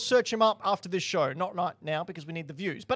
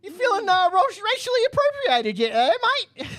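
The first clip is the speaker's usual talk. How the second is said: hammed-up mock Cockney, much higher; a bad Cockney accent, pitched way up; 9 semitones higher, 4 dB louder than usual. Host hams a bad Cockney accent at the cohost. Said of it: "a really bad Aussie accent".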